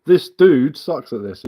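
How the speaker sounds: slow, mocking read-out of the chat line; slow scornful quote; mocking read-back. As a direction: drag it out like reading something stupid. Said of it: "You talking to me?".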